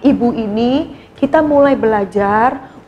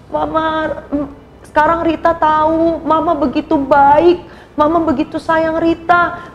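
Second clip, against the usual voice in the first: tearful pleading; 2 semitones higher than usual. Acted. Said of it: "Rita nangis, Rita minta ampun".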